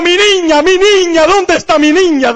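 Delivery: imitating a frantic mother, pitched high; mother crying out. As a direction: voice a mother calling for her lost baby, high and pleading. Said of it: "una señora llorando y dando gritos".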